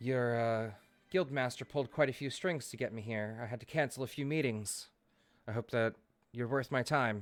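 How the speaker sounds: discreet, confidential delivery, as if not to be overheard. A visitor sits down with the party and speaks to them in a hushed voice. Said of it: "in a sort of hushed voice".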